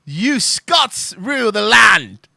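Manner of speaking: slow, loud mock-Scottish proclamation; half-hearted Scottish accent, drawn out; pretend Scottish accent. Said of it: "pretend I'm doing one".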